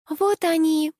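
put-on high squeaky girlish cry; squeaked. A narrator's reading. Blonde answers the director, high squeak. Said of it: "пропищала блондинка".

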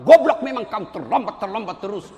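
loud mock scolding of a latecomer; acted abusive outburst; cursing. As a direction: burst out with the insult, then ease off. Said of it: "Coba kalau dimaki-maki".

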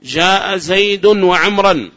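slow, loud, every word weighed; slow example read. Shown as a demonstration. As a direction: read the example out slowly for the class. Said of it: "كم وجها في عمرو؟". (قراءة بطيئة واضحة للمثال)

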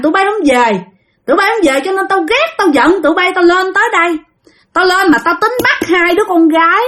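high, accusing spirit voice; resentful ghost uncle. Retold or imitated. Dead uncle tells relatives why he came, resentful possessed voice. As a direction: air the grudge as an offended spirit. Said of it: "Ông nói rằng".

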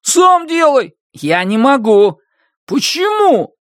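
high, frantic back and forth; panicked. Acted. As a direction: argue in panic. Panicked argument.

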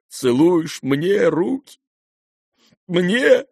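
high, slow disbelieving question; stunned that his son kisses his hands; astonished. A narrator's reading. The general stunned by Kolya kissing his hands, high.

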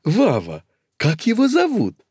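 high eager question; high curious old lady. Acted. Old lady asks the nephew his name, high. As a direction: ask curiously.

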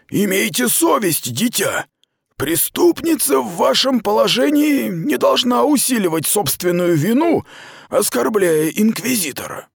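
high, sharp commanding rebuke; stern rebuke. Acted. Aradai rebukes the prisoner, sharp and stern. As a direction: scold her from authority.

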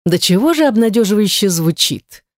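fake cheerful tone. Captor mocks the writer's plea, in fake cheerful sarcasm. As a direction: sound falsely delighted at her hopeful plea. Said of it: "притворно счастливым тоном".

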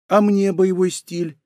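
slow, high, pitiful plea; plaintive. A narrator's reading. Рейка begs her brother for a style, plaintive. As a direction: beg pitifully in a small high voice. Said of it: "спросила она жалостливо".

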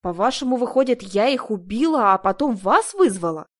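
accused woman protesting her innocence; indignant, voice rising. A narrator's reading. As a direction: push it up toward a squeal. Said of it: "голос сорвался на визг".

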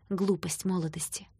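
ordinary delivery

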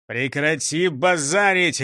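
slow, stern telling-off; barked order. Acted. Chief silences his complaining gang, stern bark. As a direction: scold firmly, drawing the words out. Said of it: "рявкнул шеф".

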